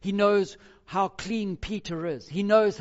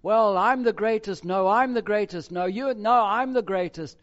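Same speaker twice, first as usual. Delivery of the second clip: louder, higher mock squabble; mock bickering, each claiming to be greatest; bickering disciples; 4 semitones higher, 8 dB louder than usual. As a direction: play the boasting disciples over each other. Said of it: "because of the bickering".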